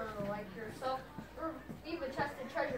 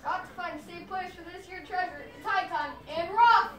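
pirate captain; 5 semitones higher, 7 dB louder than usual. Acted. Pirate captain sets sail.

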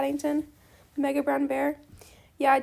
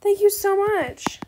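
gushing thanks; 5 semitones higher, 4 dB louder, much slower than usual. Acted. Reading chat aloud, gushing thanks.

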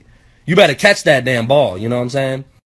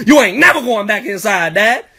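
higher-pitched cocky comeback; mock defiant kid; 5 semitones higher than usual. Nine-year-old son on a catching streak, mock defiant. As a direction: act out a worked-up child challenging his father. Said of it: "Now I'm mad".

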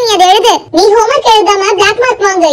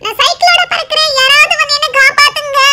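panicked shout; 4 semitones higher than usual. Acted. Flying off on cycle, shouting.

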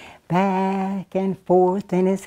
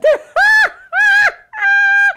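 high loud shrieking laugh; 6 dB louder than usual. Real, not acted. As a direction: burst out laughing. Teller laughs at church song.

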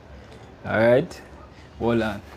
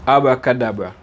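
magic word. Shown as a demonstration. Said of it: "All right, me say it".

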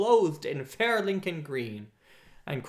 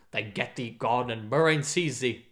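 trembling with anger; 3 dB louder than usual. Acted. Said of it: "his voice trembled with anger".

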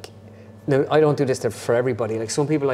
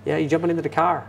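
put-on Canadian accent; 4 semitones higher than usual. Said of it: "they had it, like".

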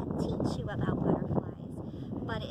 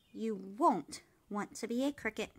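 scolding; 2 semitones lower than usual. Acted. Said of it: "his mother scolded".

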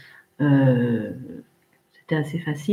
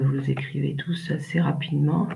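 whispered aside; 5 dB quieter than usual. Real, not acted. Aside while waiting.

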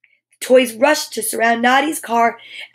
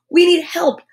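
calling out; 6 semitones higher, 5 dB louder than usual. Acted. Calls for help.

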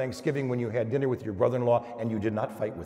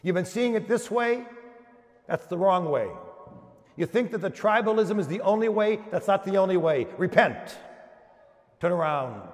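prophet shouting; 7 semitones higher than usual. Retold or imitated. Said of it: "The Baptist comes out shouting".

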